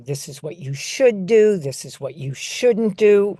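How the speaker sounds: lightly voiced lecturing parent, stressing should and shouldn't; negative parent. Trainer showing educators the negative parent voice, lightly acted lecturing. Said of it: "And then there's the negative parent".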